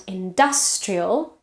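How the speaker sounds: slow "industrial", full vowel on stressed -dus-; stress on second syllable. Shown as a demonstration. Teacher contrasting vowels, slow "industrial" stressed on -dus-. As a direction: lean slowly on the "dus" in "industrial". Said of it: "the vowel changes because now it's stressed".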